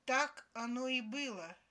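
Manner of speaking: loud, final confirmation; emphatic verdict. A narrator's reading. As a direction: stamp it down as settled fact. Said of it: "припечатал я".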